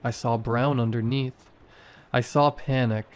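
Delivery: ordinary delivery, nothing marked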